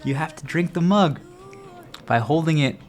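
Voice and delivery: high, eager mock enthusiasm; excited. Greeting a passing stranger who drinks the same way, excited. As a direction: gush like you've found fellow believers. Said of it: "I'm like".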